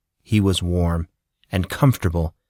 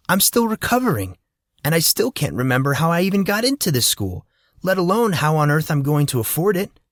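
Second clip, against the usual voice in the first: put-on teen boy complaining, pitched much higher in places; lightly voiced sulky teenager; grumpy Monson; 5 semitones higher than usual. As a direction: whine about being kept in the dark.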